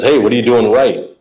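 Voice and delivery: a hint of a gruff coach testing the kid; growling old coach. Mel Queen quizzing the kid after good pitches, light growl. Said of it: "he kinda growled when he talked".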